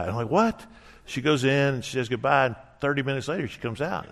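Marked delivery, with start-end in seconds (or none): 0.3-0.6 high, rising what; retold disbelief, pitched up; incredulous. Husband to wife delaying the drive, incredulous.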